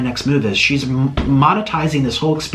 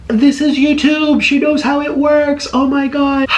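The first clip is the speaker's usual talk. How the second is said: exasperated outburst; 11 semitones higher, 3 dB louder, slower than usual. Real, not acted. Exasperated rant at Stephanie.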